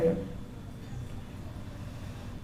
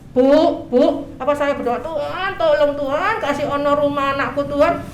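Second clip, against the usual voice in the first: mock pleading prayer, a little higher; imitating a whiny begging prayer; nagging prayer; 3 semitones higher, 3 dB louder than usual. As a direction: pester God for a house like a child. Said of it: "Saya berdoa seperti teman saya".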